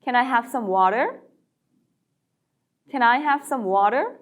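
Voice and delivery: slow, rising question for repeating; slow practice read. Shown as a demonstration. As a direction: slowly model it for practice. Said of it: "다시 한번 연습해 볼까요". (연습용으로 천천히)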